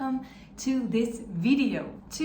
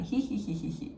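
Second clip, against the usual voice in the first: mock giggle; 3 dB quieter, faster than usual. Shown as a demonstration. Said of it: "When something is funny".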